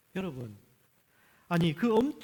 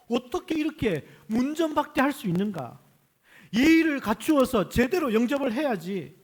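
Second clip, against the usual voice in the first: indignant; 7 semitones higher, 7 dB louder than usual. Acted. Preacher voices indignation at the snub.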